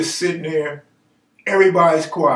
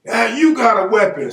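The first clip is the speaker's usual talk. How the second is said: higher-pitched blaming retort; mock counter-accusation; 5 semitones higher, 4 dB louder than usual. Answering back in the quarrel, mock accusation. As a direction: throw the blame straight back, pitched up. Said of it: "going back and forth blaming each other".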